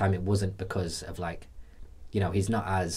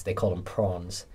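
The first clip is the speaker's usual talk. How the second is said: South African accent; slower than usual. Shown as a demonstration. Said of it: "That was a terrible South African accent".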